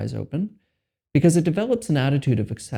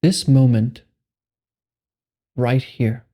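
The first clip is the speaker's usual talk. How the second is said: guided meditation; 4 dB louder than usual. Acted. Meditation guide giving listeners permission to be here, measured and spacious. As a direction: guide them unhurriedly into letting go.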